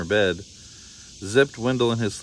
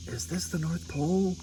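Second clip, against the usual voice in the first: prank caller; 8 semitones higher, 6 dB quieter than usual. Acted. Prank phone call.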